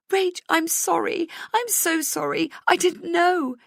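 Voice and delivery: high-pitched, tearful apology; distraught high wail. Acted. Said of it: "She wails".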